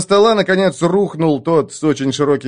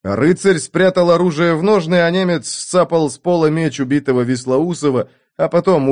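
ordinary delivery

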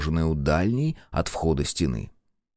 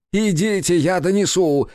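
high, loud snapped order; 10 semitones higher, 4 dB louder than usual. A narrator's reading. Director snapping at the clumsy cameraman, high loud snap. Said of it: "цыкнул на него режиссёр".

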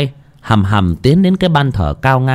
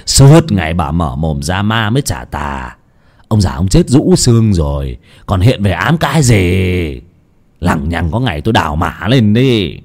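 scornful son; 5 semitones lower than usual. Acted. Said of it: "gạt phắc đi mà xỉ vả".

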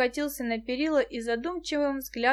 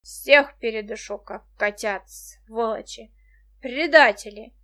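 put-on slow furious drunken yelling; drunken shout; 7 dB louder, slower than usual. A narrator's reading. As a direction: bellow it out, enraged. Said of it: "ударил кулаком по перилам и закричал".

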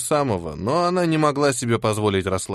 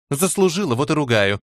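sharp. Acted. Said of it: "резко ответила худая".

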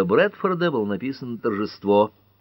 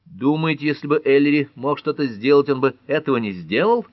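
a raised, heated exclamation; exclaiming; 7 semitones higher, 5 dB louder than usual. Acted. Pat defends Ellery, exclaiming louder. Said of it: "воскликнула Пэт".

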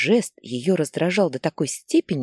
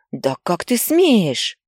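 slow, louder outraged yell; furious yell; 4 semitones higher, 5 dB louder, much slower than usual. Acted. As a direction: drag out the outrage at the son. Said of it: "заорала она". (мать медленно и громко возмущённо кричит на сына)

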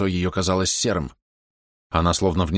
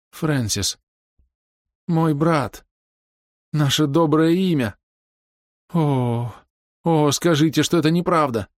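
higher pleading voice, a hint of tears; plaintive lament; 9 semitones higher, slower than usual. A narrator's reading. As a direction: beg them to deny it, close to crying. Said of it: "И она жалобно заплакала". (жалобно, почти плача)

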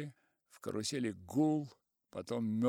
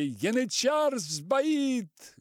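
high, loud, drawn-out alarmed yell; a cry of panic over the crowd; shout from carousel; 13 semitones higher, 7 dB louder, much slower than usual. A narrator's reading. Кричит из карусели о сбое, громкий тревожный крик. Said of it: "Крик в карусели".

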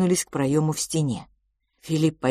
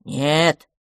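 worried creature; 4 dB louder than usual. Acted. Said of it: "озабоченно покачал головой".

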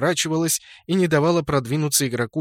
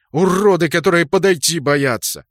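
angry shout; 3 semitones higher, 6 dB louder than usual. A narrator's reading. Orc enraged, charging.

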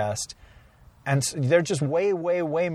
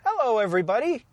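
Kermit voice; 8 semitones higher than usual. Acted. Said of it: "Now I sound like Kermit".

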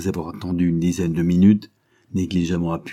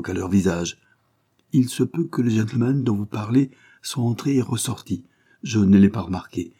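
a hint of a nervous shopkeeper talking his way out; wary jeweller; 3 semitones higher than usual. Jeweller's voice in story.

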